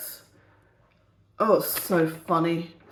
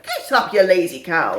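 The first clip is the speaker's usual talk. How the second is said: lightly voiced rude old woman, louder; a hint of a scolding old crone; mock crone scolding; 4 dB louder than usual. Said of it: "she's like".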